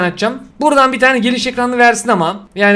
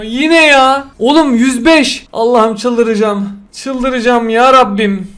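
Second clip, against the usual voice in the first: exasperated groan; 2 semitones higher, slower than usual. Real, not acted. Another bad pull, despair.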